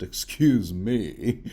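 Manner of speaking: slow, hammed-up Dornish accent; playful fake Dornish accent; mock Dornish accent. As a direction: put on a Dornish accent for "Excuse me". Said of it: "I tend to have this Dornish accent".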